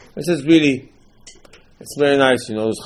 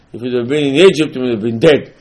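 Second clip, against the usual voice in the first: firm, louder acted rebuke; stern retort; 5 dB louder than usual. Father answers the wicked son, stern raised voice. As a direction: deliver a pointed fatherly comeback.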